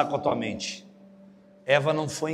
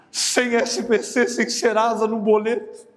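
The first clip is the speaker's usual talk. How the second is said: slow, high, mocking list of the scam's perks; mocking scam pitch; 5 semitones higher, slower than usual. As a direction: spell out the too-good-to-be-true deal slowly. Zomba da oferta de golpe. (tom de deboche, lento e agudo)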